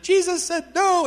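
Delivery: high, loud, slow cry of relief; overjoyed excitement. Retold or imitated. Woman hearing she needn't live under a death sentence, overjoyed excitement. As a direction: imitate an overjoyed outburst. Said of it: "she was so excited".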